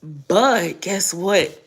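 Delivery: slow teasing whisper. Real, not acted. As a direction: lean in and whisper it. Whispered teaser.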